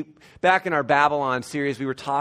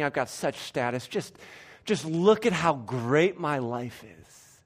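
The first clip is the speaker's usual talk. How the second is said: smug false apostle; 3 semitones lower, 4 dB quieter than usual. Acted. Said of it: "you can imagine them saying things like this".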